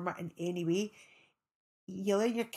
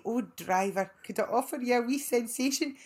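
flirty wink offer; 4 semitones higher, 4 dB louder than usual. Retold or imitated. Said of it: "wink and say".

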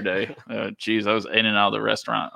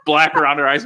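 laughing; 4 semitones higher, 4 dB louder than usual. Real, not acted. Laughing while telling own embarrassing story.

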